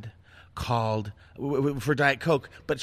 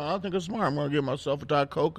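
imitating a big-bellied guy. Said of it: "like myself would say".

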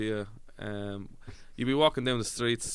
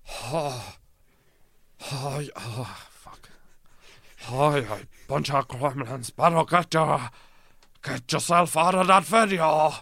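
a wobbly, false-start John Wayne, high and loud by the end; fumbling first try at a cowboy voice; John Wayne impression; 4 semitones higher, 6 dB louder, slower than usual. Doing John Wayne for the lads, first shaky take. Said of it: "John Wayne".

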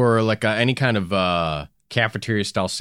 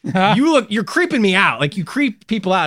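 imitating the teacher; 8 semitones higher, 5 dB louder than usual. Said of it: "he was like".

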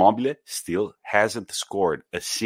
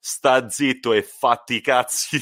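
mock telling off; 3 semitones higher, 3 dB louder than usual. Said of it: "And Gattuso goes".

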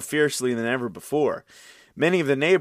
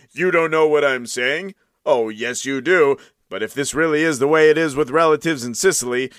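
indignant plea; 5 dB louder than usual. Acted. Andreuccio argues with maid.

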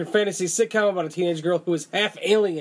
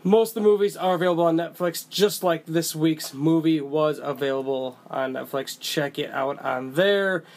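podcast intro read. Acted. Reading the show's standard intro.

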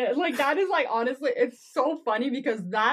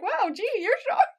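mock surprise; 11 semitones higher, 3 dB louder than usual. Fan replaying the line, high hammed-up amazement. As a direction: marvel at it, wide-eyed. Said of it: "I'm just like".

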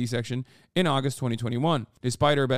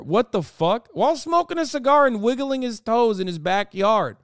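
higher, louder, indignant disbelief; rising outrage at the absurd scene; incredulous outburst; 9 semitones higher, 5 dB louder than usual. Real, not acted. Streamer reacting to the husband smoking a cigar, incredulous and loud.

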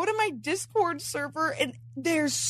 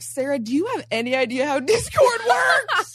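raised, incredulous voice; mock exasperation; 2 semitones higher, 5 dB louder than usual. Girlies confronting Sarah about her Discord, mock exasperated. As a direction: loudly question someone's basic competence, playfully.

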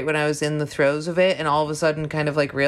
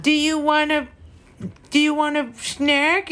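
tiptoeing partner; 11 semitones higher than usual. Retold or imitated. Mimicking Mike tiptoeing around her crying, careful high offer. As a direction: coax her gently like a fragile thing. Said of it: "Don't be like".

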